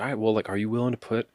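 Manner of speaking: hyped-up coach pitch; motivational speaker. Retold or imitated. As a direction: pump them up like a life coach. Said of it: "I start sounding like a motivational speaker".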